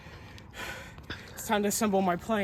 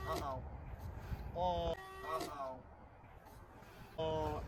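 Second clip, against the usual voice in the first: worried murmur; 4 semitones lower, 13 dB quieter, slower than usual. Real, not acted. Plane about to crash.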